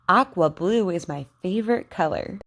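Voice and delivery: careful teacher model sentences, KW sound stressed; over enunciating. Shown as a demonstration. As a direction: say each word clearly for learners to repeat. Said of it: "Repeat after me".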